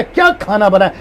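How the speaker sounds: a mild scolding demo; mock scolding about the food. Shown as a demonstration. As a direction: scold as if the meal is late. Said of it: "इसको कहते हैं डांटना".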